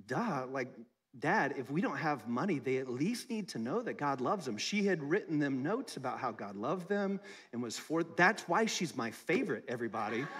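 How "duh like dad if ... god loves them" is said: daughter's reply. Retold or imitated. Father quoting young daughter.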